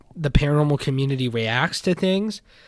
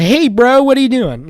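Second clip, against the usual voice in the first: casual bro greeting; 10 semitones higher, 9 dB louder than usual. Pretend. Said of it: "and I say".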